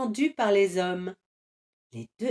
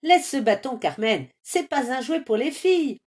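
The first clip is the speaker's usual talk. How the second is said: grumbling; 3 semitones higher, 3 dB louder than usual. Acted. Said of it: "bougonne Carmelito".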